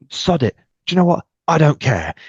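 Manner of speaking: retold devil-may-care outburst; defiant burst. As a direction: say it like you've stopped caring what they think.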